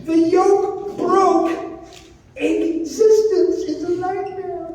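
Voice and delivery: lightly voiced borscht belt comic; old borscht belt comic. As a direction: tell the jokes like an old vaudeville comic. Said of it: "puppet continues stand-up".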